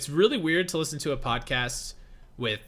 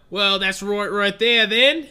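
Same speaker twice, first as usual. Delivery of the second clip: higher-pitched, shaky attempt at Australian; badly faked Australian accent; 6 semitones higher, 5 dB louder, slower than usual. Shown as a demonstration. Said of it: "I always try to do Australian accents".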